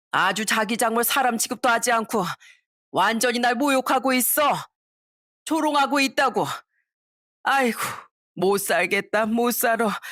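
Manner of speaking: mock self-pity, begging the daughter; a drunk mother whining to her daughter about the son-in-law; wailing mother-in-law.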